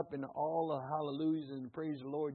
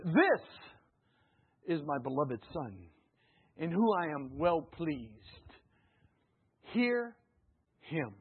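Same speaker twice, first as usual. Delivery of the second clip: voice of God; much slower than usual. Acted. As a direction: boom it down like God from heaven. Voice of God from the cloud.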